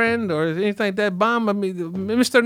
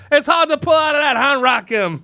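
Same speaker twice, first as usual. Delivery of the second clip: teasing; 7 semitones higher, 4 dB louder than usual. Acted. Teasing a rapper about a singer.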